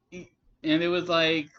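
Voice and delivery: usual speaking voice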